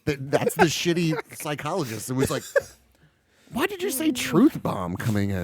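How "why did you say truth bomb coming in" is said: high, hammed-up exasperation; mock-anguished high-pitched complaint; exasperated self-reproach. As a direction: scold yourself in a skit, pitched way up. Berating himself in an imagined skit.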